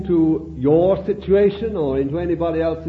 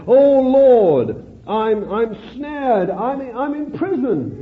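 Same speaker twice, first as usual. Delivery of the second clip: pleading believer; 5 semitones higher, slower than usual. Retold or imitated. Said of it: "you say".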